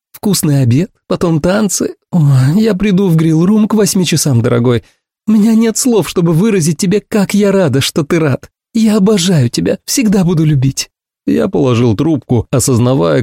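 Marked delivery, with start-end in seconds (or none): 0.1-10.9 high, gushing woman's voice; much higher, doting; adoring Ursula. A narrator's reading. Ursula gushing to her friend, high and doting.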